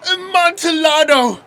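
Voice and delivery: high, loud burst on the wine's name; excited cry. Acted. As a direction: throw the name out in eager scorn. Fortunato scoffing at the rival.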